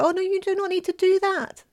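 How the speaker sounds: high, polite refusal; a lightly voiced boy refusing the feather; boy protesting. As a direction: wave the gift away.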